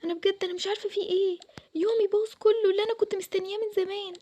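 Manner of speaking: high tearful voice breaking; crying. Acted. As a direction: sob out that the day is ruined. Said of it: "مالك بتعيطي ليه؟".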